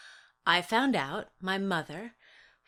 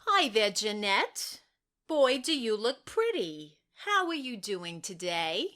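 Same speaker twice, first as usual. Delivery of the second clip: social worker voice. Acted. Social worker talking to child.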